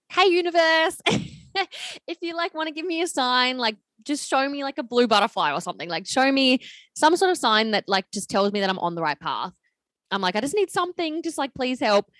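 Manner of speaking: high, earnest plea with a laugh in it; pleading to universe. Retold or imitated. Alone in bed asking the universe for a sign, high pleading voice.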